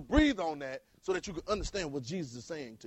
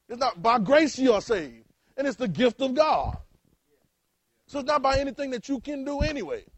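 fervent preaching; 7 semitones higher, 7 dB louder than usual. Real, not acted. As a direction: lean hard on every word. Preaching climax on grace.

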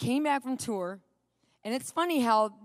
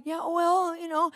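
higher, tentative placating voice; lightly pitched-up, gentle hedging; trying to be gentle; 6 semitones higher, slower than usual. Retold or imitated. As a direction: act out careful appeasing. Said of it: "I'd try to be gentle with him".

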